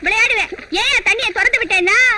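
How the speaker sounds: furious, angry shouting. In a quarrel over letting the water out, one person retorts to another: angry shouting. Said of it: "ஏன் இப்படி கத்துற?".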